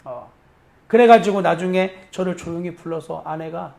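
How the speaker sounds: ordinary talk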